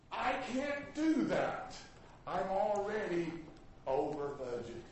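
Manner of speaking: slow, deliberate refusal; slow polite no. Shown as a demonstration. Preacher teaching the church to say no, slowly. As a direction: say no kindly and without hurry. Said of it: "I want to teach you a word".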